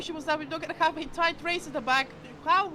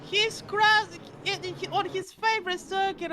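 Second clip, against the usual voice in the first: excited; 3 semitones higher, slower than usual. Real, not acted. Reacting to crash.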